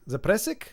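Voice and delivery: Zapresic as "zuh-PRESS-ick", rising; questioning pronunciation. Shown as a demonstration. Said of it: "out of those seventeen pronunciations".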